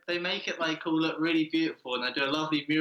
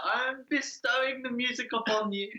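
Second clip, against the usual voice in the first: much higher, slow and pompous; mock-regal rock frontman, pitched way up; grandiose rock star; 11 semitones higher, slower than usual. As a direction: lord it over the crowd like a rock god. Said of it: "He just comes out like".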